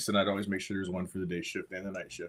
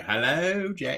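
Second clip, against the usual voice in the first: mock Southern; 7 semitones higher, 5 dB louder, much slower than usual. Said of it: "I can't do the Southern as well".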